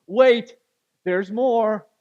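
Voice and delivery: loud, excited interruption; eager shout. Retold or imitated. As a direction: burst in to top the surprise. Aaron slaps card down.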